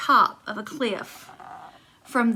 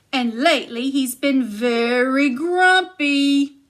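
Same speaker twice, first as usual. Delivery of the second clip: giantess scolding; 2 semitones higher, 5 dB louder than usual. Acted. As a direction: chide him like a big matron.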